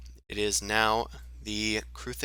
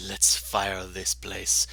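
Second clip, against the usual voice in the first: lightly voiced Ostrich; Ostrich's voice; 2 semitones lower, much slower than usual. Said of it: "I don't know why I did that in Ostrich's voice".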